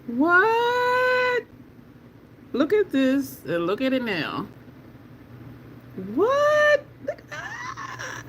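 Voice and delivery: high drawn-out "What?"; amazed. Real, not acted. Showing viewers the colour shift, high and amazed.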